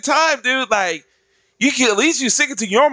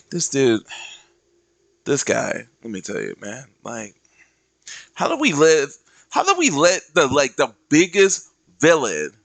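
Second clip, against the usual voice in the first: lower, hushed conspiratorial voice; lowered scheming villain; 6 semitones lower than usual. Retold or imitated. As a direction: confide a grievance in a low hush. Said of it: "being like".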